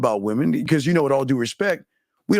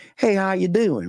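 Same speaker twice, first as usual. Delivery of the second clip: light put-on country twang, pitched up; 6 semitones higher than usual. Speaker imitates how people with that accent say hello: little country twang. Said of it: "the little country twang".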